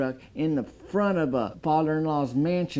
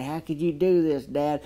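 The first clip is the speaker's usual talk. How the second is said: put-on ashamed kid; 4 semitones higher than usual. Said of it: "embarrassment and sadness and shame".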